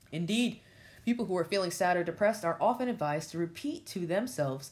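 deliberate delivery of written text; reading aloud. Real, not acted. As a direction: read the passage out with firm stress. Reads a written passage aloud.

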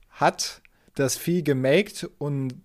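slow, formal quotation reading; reading aloud. Shown as a demonstration. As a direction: read the entry slowly and formally. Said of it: "ich zitiere mal".

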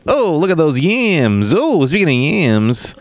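slow hammy comic delivery; lightly voiced old stand-up; Catskills comedian. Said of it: "Catskills comedian Tiffany Dillon".

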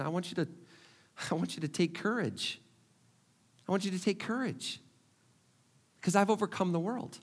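tender reassurance. Retold or imitated. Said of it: "Jesus is going".

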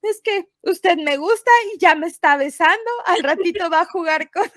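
voz aguda entre sollozos; llorando. Retold or imitated. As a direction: reclama llorando, quebrada. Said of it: "ya llorando". (empleada llorosa reclama al jefe, voz aguda)

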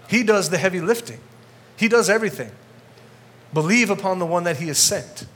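pushing the point with growing heat; fired-up preaching. Real, not acted. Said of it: "I'm getting fired up".

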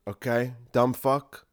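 ordinary delivery

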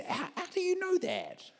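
very high, stammering weepy question; imitated crying. Crying man questioning the preacher's promise, imitated weepy voice. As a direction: squeak it out as if sobbing. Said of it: "he starts crying and he goes".

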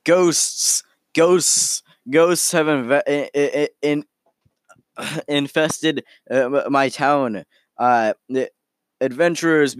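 lightly acted man in a fluster, begging for help; mild panicked yelling. Townsman pleading with adventurers about ghosts, mildly panicked yelling. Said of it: "there's a man yelling".

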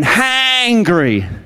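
Hangry with a long Essex A gliding into the N; essex accent. Shown as a demonstration. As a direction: stretch the A of Hangry into the N, Essex style. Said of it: "You've gotta elongate the A into the N".

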